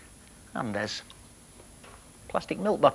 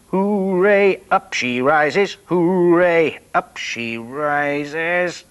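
1 cheering hooray; 5 dB louder, much slower than usual. Acted. Cheering the bottle refloating.

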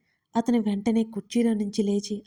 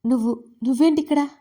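a startled, faltering question, a touch louder; stammering in shock; 3 semitones higher, 4 dB louder than usual. A narrator's reading. Rahini, startled to find Rishi in her room, stammering. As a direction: stumble over the first word, caught off guard. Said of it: "అడిగింది ఆమె తడబడుతూ".

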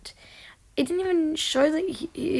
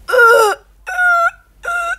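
stunned stammer; 11 dB louder than usual. Real, not acted. Stunned by what happened.

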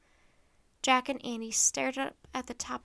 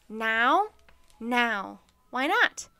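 eager; 8 dB louder, much slower than usual. Acted. Eager quick exchange.

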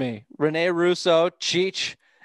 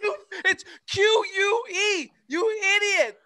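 high, crying with laughter; laughing hysterically. Real, not acted. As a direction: choke the words out laughing.

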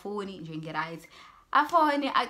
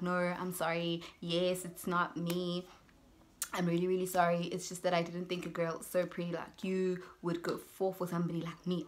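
retold apology; 4 dB quieter than usual. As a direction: quote him gently owning up and apologising. Catfish apologising when confronted.

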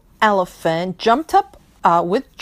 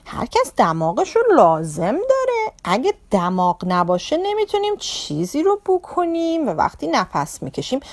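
higher, louder amused ladybug voice; laughing ladybug; 5 semitones higher, 3 dB louder, much faster than usual. Acted. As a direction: tease the elephant kindly, higher. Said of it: "زد زیر خنده و گفت". (بابا کفشدوز با خنده و صدای زیرتر)

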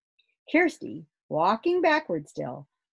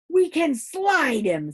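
higher, louder, slower realisation; eager idea; 10 semitones higher, 8 dB louder, slower than usual. Acted. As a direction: announce the bright idea. Grumble has an idea.

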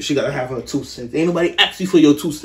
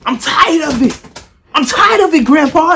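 high, loud fake sob, slow at first; mock crying; 13 semitones higher, 7 dB louder than usual. Imitating her crying to Grandpa, high fake wail.

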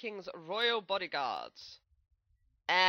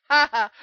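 loud triumphant ha ha; gloating laugh; 7 semitones higher, 17 dB louder than usual. Acted. Host gloats at the puzzle fans with a loud laugh. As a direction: crow with a short gloating laugh.

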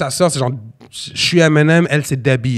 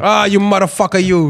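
Italian grandpa; 3 semitones higher than usual. Retold or imitated. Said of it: "il rajoute toujours un you".

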